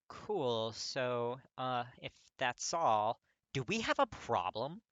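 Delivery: loud, harsh, abrupt challenge. Acted. Katsuki confronting Kirishima, harsh and grating. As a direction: bark the question at him. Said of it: "Katsuki asks abruptly".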